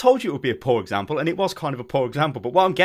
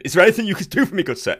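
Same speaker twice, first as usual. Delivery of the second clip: quick, high, louder Victorian English plea; Victorian English gentleman; 4 semitones higher, 5 dB louder, faster than usual. Acted. Customer without internet asking for help, quick high Victorian English. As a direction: rattle it off as a ye olde English gent. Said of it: "a ye olde English Victorian-y style".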